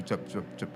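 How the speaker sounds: quiet little lip smacks into the mic; soft kiss sounds. Shown as a demonstration. Pastor shows husbands how to kiss, soft kiss sounds. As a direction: blow three soft kisses. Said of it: "bibirnya aja".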